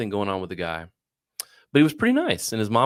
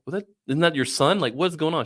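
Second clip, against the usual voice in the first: higher-pitched, incredulous questioning; retold disbelief; 7 semitones higher than usual. Caller questioning a mother about her son, incredulous. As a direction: recount questioning someone in mild disbelief. Baffled phone call to his mom.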